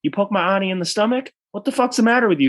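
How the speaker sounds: high-pitched retold confrontation; mock indignation. Leon confronting Larry over his auntie, mock indignant.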